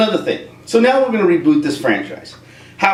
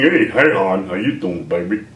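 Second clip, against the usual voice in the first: flirty greeting; 8 semitones lower than usual. Pretend. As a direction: purr it like a lounge lizard. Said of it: "I don't know what that was".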